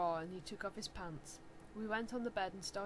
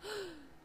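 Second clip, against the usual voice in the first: gasp; 9 semitones higher, 6 dB quieter than usual. Acted. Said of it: "Everyone gasped".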